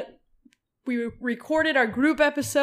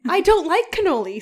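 mock whine; 8 semitones higher, 8 dB louder than usual. Real, not acted. Mock complaint.

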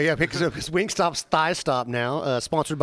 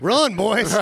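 laughing; 8 semitones higher, 5 dB louder than usual. Real, not acted. Joking warning, laughing.

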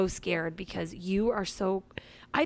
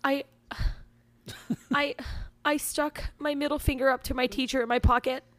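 put-on halting child's confession, higher pitch; hesitate, then blurt it out like a weepy six-year-old; imitating a crying kid, broken by giggles; mock tearful child; 5 semitones higher, 3 dB louder than usual. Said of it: "then she starts crying".

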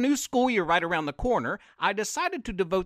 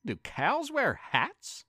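slow, slightly higher questioning cat; lightly voiced cat; 4 semitones higher, 3 dB quieter, slower than usual. The cat asks the others, lightly voiced and wondering. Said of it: "said the cat".

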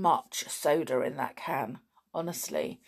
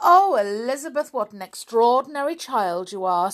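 higher, louder, still laughing; through laughter; 6 semitones higher, 7 dB louder than usual. Acted. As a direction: speak through tears of laughter. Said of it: "wiping away the tears of laughter".

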